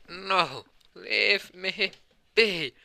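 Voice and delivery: high, loud command to stop; high forceful cry of refusal; commanding shout. Acted. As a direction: throw a hand up and order them off. Sten commands the demons away.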